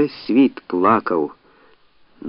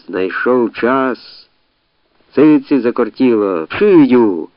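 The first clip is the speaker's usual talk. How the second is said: jeering; 3 semitones higher, 5 dB louder, much slower than usual. Acted. Crowd jeers the crying man.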